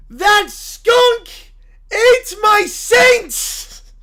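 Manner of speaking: loud, anguished preacher's cry; a wounded zealot shouting at the sky; outraged preacher. Acted. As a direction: howl it like your church just fell. Character outrage.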